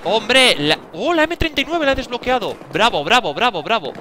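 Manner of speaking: real joy at a new weapon; thrilled cheer. Real, not acted. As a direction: celebrate the unlock. Unlocks the M39 weapon.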